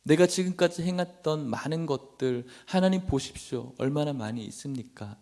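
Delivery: acted plea to God, pitch lifted; tearful pleading prayer. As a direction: plead earnestly as Hezekiah, without real tears. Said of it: "라고 이야기하는데 눈물이 계속 나는 거예요".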